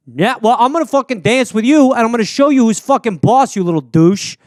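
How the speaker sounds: loud tough-guy threat; Jersey dude squares up to the alien, loud and mean. Acted. Loud Jersey threat.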